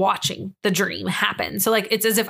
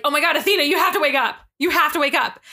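higher-pitched, pleading alarm; urgent panicked plea; 5 semitones higher, faster than usual. Retold or imitated. Dreamer begs her sleeping self to wake up, in a higher urgent plea.

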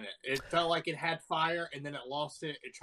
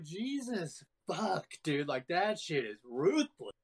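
mock stunned disbelief; 4 semitones higher, slower than usual. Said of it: "I was like".

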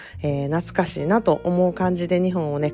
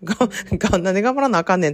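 inner tsukkomi; 3 semitones higher, faster than usual. Retold or imitated. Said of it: "と思いながら".

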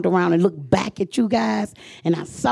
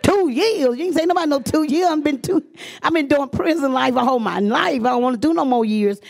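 much higher, disbelieving outcry; shocked protest; 7 semitones higher than usual. Retold or imitated. Woman hearing the program takes two years, shocked and protesting. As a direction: balk hard at the news, pitched way up.

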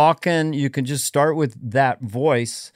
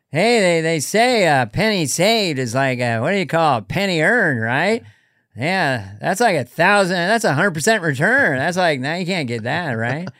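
Norm impression. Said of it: "David and I do Norm".

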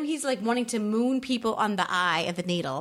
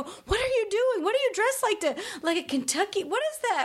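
retold alarm; 11 semitones higher than usual. Friend alarmed at Lawrence's outfit.

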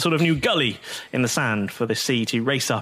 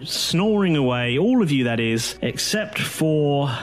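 steady recap narration; previously on recap. A narrator's reading. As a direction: sum up the last episode like a show intro. Recap of last episode.

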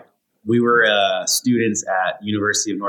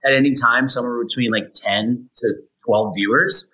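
news anchor voice. Pretend. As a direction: read it like a TV anchor. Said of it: "in your anchor voice".

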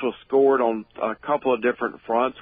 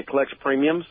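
strangled voice; 4 semitones higher than usual. Real, not acted. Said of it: "sounds like you're choking on a fly".

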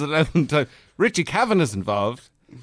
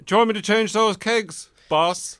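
eager apprentice voice; 7 semitones higher than usual. Pretend. Apprentice asks barman boss.

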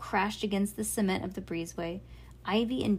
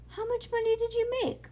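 much higher, amazed and eager; eager girl. A narrator's reading. Bean to dad, amazed about the money, high and eager. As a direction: squeal it out in wonder.

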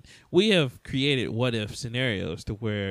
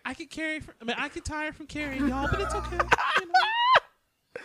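Gal Gadot; 14 semitones higher than usual. Retold or imitated. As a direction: pitch it far up, forgiving. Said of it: "Gal Gadot, A K A Wonder Woman".

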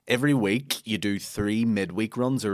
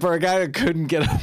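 loud laughing repeat, fast; gleeful shouted punchline; 8 semitones higher, 4 dB louder, faster than usual. Real, not acted. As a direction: blurt the joke through laughter. Teasing repeat of friend's joke.

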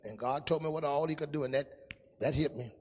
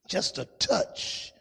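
barely there, like a touch; whispered hush in a sermon; breathy near-whisper; much slower than usual. Acted. Preacher demonstrating a light touch.

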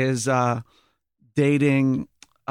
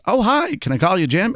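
much higher, bright friendly opener; Ned sweetly asking to be chummy; chirpy Ned; 5 semitones higher than usual. Retold or imitated. Ned asks James L. Brooks for a nickname, high and chirpy. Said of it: "He goes".

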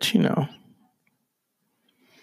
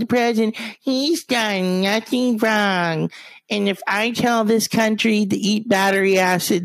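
higher, mock spokeswoman voice; Kellyanne Conway impression; 6 semitones higher than usual. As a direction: play a smug spokeswoman.

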